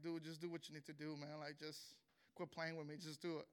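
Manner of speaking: resigned surrender. Retold or imitated. Giving in to his attackers.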